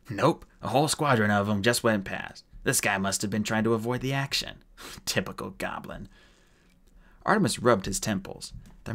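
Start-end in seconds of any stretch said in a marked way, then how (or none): 0.1-6.1 lightly voiced casual dwarf; dismissive dwarf. Mulch explains to Artemis.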